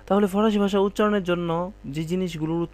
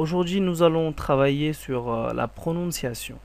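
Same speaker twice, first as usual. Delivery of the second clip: slow, carefully articulated French for learners; slow French teaching model; much slower than usual. Shown as a demonstration. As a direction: lay out each syllable slowly for the class.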